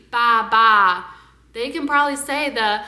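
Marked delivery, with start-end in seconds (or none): 0.1-1.0 sheep bleat. Shown as a demonstration. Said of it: "a sheep".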